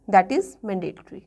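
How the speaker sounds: very slow, each word weighed; slow firm teacher emphasis. Shown as a demonstration. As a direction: lay the rule down slowly. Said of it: "stressing the rule".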